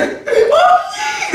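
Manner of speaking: very high, drawn-out call for mother; demonstrated big call. Shown as a demonstration. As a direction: show the crowd how to cry out for mother. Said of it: "이렇게 하지". (길게 내지르는 어머니 부름)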